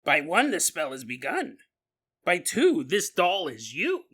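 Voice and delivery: a lightly spooky incantation, slowing down at the end. Shown as a demonstration. Reciting the voodoo spell to make it work better, mildly spooky voice. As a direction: chant the spell as if it's haunted, but only a touch. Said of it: "if you say it in a spooky voice".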